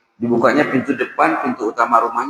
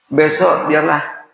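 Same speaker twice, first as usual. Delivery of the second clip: slow emphasis; 3 semitones higher, much slower than usual. Acted. Preacher repeats father's promise.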